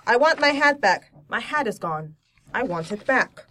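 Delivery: dry storybook deadpan, dropping after the first line; mildly voiced deadpan picture-book bear; wry deadpan. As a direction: state each short sentence drily, with understated humor. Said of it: "Really wry humor".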